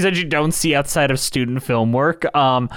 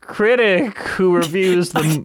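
slow, stilted hammy intro; bad acting; 3 semitones higher, slower than usual. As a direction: announce yourself like a bad web critic. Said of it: "And he's like".

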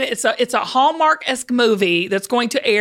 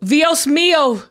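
exclaimed learner's Spanish; attempted Spanish accent; 2 semitones higher, slower than usual. Shown as a demonstration. Southerner copying her teacher, imitation Spanish accent. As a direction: try the Spanish accent again, carefully. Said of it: "focus on nailing this accent".

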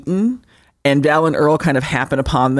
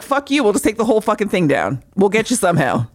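higher, fast taunting worm voice; mock worm threat; 6 semitones higher than usual. Podcaster voicing the worms taunting the trapped wife, mock menace. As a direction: sneer it like a smug monster. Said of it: "They're just like".

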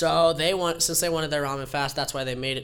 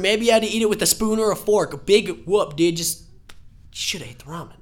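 high, loud, fast laughing rant; exasperated mock scolding; 7 semitones higher, 6 dB louder than usual. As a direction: lecture him half laughing. Scolding friend who refused ramen.

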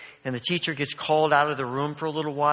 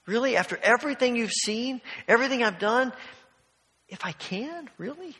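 incredulous; 5 semitones higher than usual. Retold or imitated. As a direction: ask it as if you cannot believe what you just heard. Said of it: "he's just incredulous about it".

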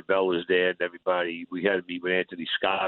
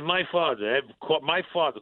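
raised pitch, mildly incredulous; disbelieving; 5 semitones higher than usual. Retold or imitated. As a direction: retell it as a puzzled protest. Acted disbelief about quiet father.

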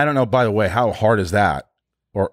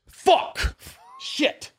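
very high, breaking mock curse; mock frustrated outburst; 4 dB quieter than usual. Actor blowing another take on set, mock frustrated. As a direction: imitate a strained, high-pitched swearing fit.

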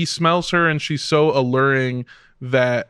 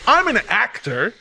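defiant; 7 semitones higher than usual. Retold or imitated. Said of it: "he's like".

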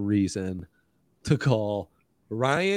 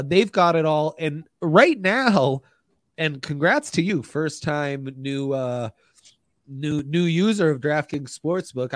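ad read; 3 semitones higher than usual. Acted.

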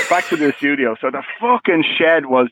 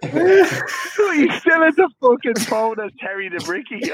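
laughing; 6 semitones higher, slower than usual. Real, not acted. Laughs while telling the punchline.

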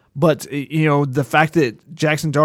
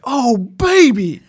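put-on slow, loud, high "oh baby"; impressed exclamation; 9 semitones higher, 6 dB louder, much slower than usual. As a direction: savor it, really impressed. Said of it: "he's like".

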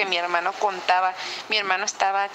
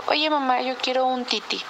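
put-on higher, childlike plea for a bottle; lightly voiced little boy asking mom; sleepy toddler asking; 4 semitones higher than usual.

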